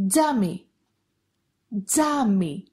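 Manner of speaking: "τζάμι" starting like j in jar; "τζάμι" as a careful word demo, τζ up front. Shown as a demonstration. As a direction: model "τζάμι" with a voiced dz or j onset. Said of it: "sounds like J in the word jar".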